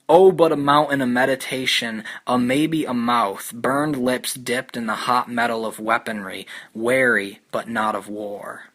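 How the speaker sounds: measured literary read-aloud, falling phrase ends; unhurried recitation of a poem; poetry reading. Acted. Reads the passage from the book.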